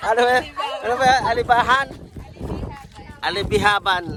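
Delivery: high, puzzled trying to say it; fumbling the name. Real, not acted. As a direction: stumble over a hard name. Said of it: "ang hirap i-pronounce". (nalilito sa pagbigkas ng pangalan)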